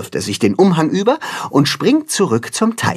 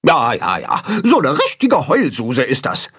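scornful goose; 2 semitones higher than usual. A narrator's reading. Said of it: "Gram verdreht die Augen".

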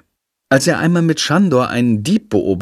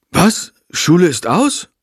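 put-on high, startled just-woken boy; surprised; 7 semitones higher than usual. A narrator's reading. Friedrich waking to an empty stage, startled and high. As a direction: wake up surprised. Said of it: "Überrascht stellt er fest".

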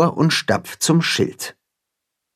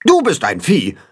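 1 chattering goose; 5 semitones higher than usual. A narrator's reading. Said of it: "schnattert Grimm".

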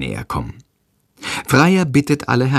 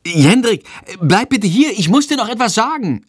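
higher, urgent call down the stairs; calling after him; 12 semitones higher than usual. A narrator's reading. Mother calls Jendrik back down the stairs, higher and urgent. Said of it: "ruft sie".

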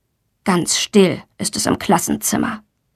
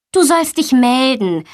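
mild admonishment; 4 semitones higher than usual. Acted. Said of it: "ermahnt ihn die Lehrerin".

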